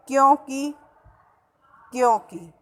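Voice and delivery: क्योंकि with a lengthened final "kee"; long final vowel. Shown as a demonstration. Teacher showing a common error, क्योंकि ending in long "kee". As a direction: stretch the last i of क्योंकि. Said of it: "बड़ी की मात्रा लगाते हैं".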